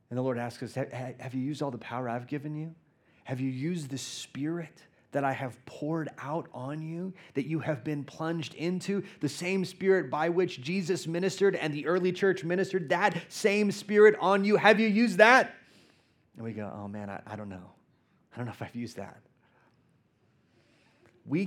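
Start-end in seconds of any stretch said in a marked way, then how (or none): 0.7-15.5 lightly voiced God pressing the church; building divine challenge. 16.7-19.2 low, soft, embarrassed admission; mock sheepish reply; sheepish mumble. Sheepish answer to God.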